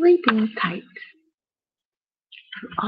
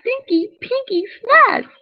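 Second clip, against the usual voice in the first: playful relish; 10 semitones higher than usual. A narrator's reading. Storyteller relishing messy snack words.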